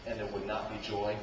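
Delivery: low, soft probing questions; preacher drawing listeners in; intimate. Real, not acted. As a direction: lean in and murmur to the congregation.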